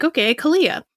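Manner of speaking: "Kalia" said the English way; English pronunciation. Shown as a demonstration. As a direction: read "Kalia" as an English speaker would, lightly lifted. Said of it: "in the English would be like".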